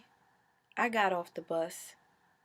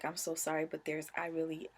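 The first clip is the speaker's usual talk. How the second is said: tearful apology; 2 semitones lower, 3 dB quieter than usual. Retold or imitated. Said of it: "And I was like".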